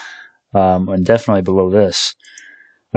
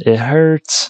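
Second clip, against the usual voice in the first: higher, hammed-up whimper of pain; mock pained whine; 6 semitones higher than usual. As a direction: whine it like a wounded puppy. Repeats it hurts, mock pain.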